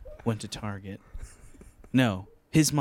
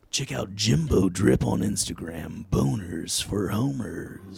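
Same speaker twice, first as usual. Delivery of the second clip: movie trailer voice; 2 semitones lower, slower than usual. Shown as a demonstration. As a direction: announce it like a film trailer. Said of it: "a movie theater trailer voice".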